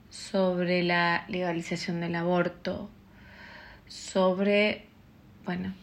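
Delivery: talking through a yawn. Real, not acted. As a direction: yawn mid-sentence. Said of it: "estoy bostezando mucho".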